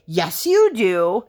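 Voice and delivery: put-on whispered, stubborn child; mock a defiant preschooler in a whisper; defiant four-year-old. Mom imitating her defiant daughter, whispered. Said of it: "defiant four-year-old".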